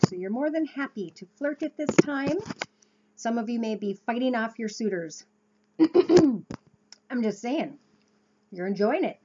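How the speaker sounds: talking while chewing gum; words round a piece of gum. Real, not acted. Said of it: "Pardon my gum".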